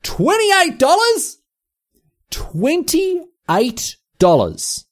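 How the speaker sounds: high, slow, stretched disbelief; shocked. Real, not acted. Reading the menu price to listeners, stunned and slow. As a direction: drag out the outrage at the price.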